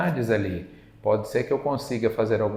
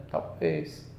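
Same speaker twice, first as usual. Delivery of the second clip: whispered maybe; 7 semitones lower, 6 dB quieter than usual. Retold or imitated. Chico's gentle hedge to the woman.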